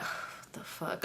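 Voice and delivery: breathy whispered what the fuck. Retold or imitated. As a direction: whisper it under your breath. Muttered to herself seeing her.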